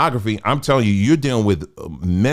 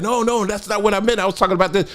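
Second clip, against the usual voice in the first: a higher, light mock of his sister correcting him; imitating sister; 8 semitones higher, faster than usual. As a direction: play the sister setting it straight, pitched up. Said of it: "and she was like".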